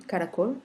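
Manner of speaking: caracol, stressing the final "col"; stress on last syllable. Shown as a demonstration. Teacher repeats the example for listeners, final stress on caracol. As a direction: put the force on "col" in caracol. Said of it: "qu'on prononce avec plus de force".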